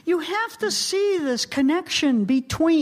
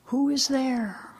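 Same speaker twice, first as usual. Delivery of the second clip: mysterious divine voice; slower than usual. Acted. Twenty years later the voice asks, lightly acted solemn question. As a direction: sustain the question as the returning voice. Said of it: "the voice comes back".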